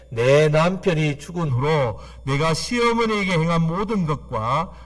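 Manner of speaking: slow, measured reading in unison; unison scripture reading. Acted. Pastor leads the church reading the verse together, slow and measured. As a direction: read the verse out slowly together. Congregation reads scripture aloud.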